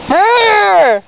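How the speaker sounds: grr face. Pretend. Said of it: "Show me your grr face".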